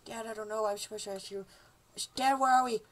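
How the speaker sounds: put-on high little kid voice; lost son. Lost son talking to dad, high worried kid voice.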